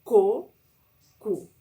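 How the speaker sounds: hard K in Co and cu; hard C syllables. Shown as a demonstration. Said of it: "faz o som de Q novamente".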